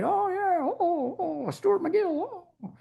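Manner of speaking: high mock-pathetic whimper of a scolded trainer; wussy-ass voice. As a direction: whine it like a weakling dodging blame. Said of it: "I can't not make that fucking wussy-ass voice".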